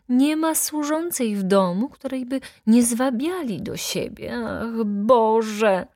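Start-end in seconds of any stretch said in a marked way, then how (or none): 4.5-5.9 cry out. A narrator's reading. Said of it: "Krzyknęła, odwracając głowę".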